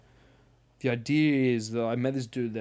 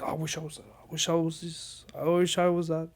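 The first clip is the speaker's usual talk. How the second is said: whiny self-pity voice; 6 semitones higher than usual. Retold or imitated. Mocking whiny self-hating inner voice.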